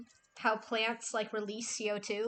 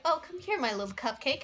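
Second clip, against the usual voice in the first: imitating cooing streamer; 5 semitones higher, 3 dB louder than usual. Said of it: "he's like".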